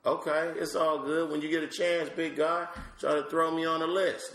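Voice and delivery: put-on high, bright little-girl voice; mimicking his three-year-old. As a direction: play a sassy toddler asking for stage time. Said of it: "She was like".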